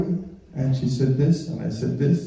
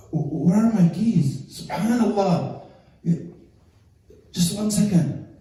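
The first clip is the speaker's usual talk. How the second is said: higher-pitched, innocent stalling; feigned searching; 5 semitones higher than usual. Acted. Husband sneaks past waiting wife hunting keys, feigned innocence. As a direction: play at hunting for something to buy time.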